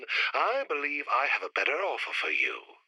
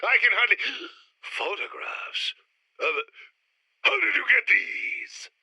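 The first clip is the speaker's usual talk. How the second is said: shocked; 5 semitones higher than usual. Acted. Shown blackmail photographs.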